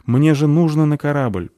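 high, loud urgent outburst; panicked. A narrator's reading. Novice realises she may miss her ship, panicked. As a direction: blurt it out in alarm.

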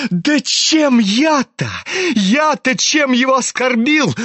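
high-pitched mock-innocent protest; insist, with a touch of mockery; mocking insistence. A narrator's reading. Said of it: "тем же насмешливым тоном".

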